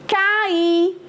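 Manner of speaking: "cair" said ca-Í, the final I stressed. Shown as a demonstration. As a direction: hold a separate, accented I at the end of "cair". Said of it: "Ó, acento". ("cair" com acento forte no I final)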